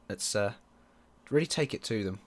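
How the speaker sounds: ordinary delivery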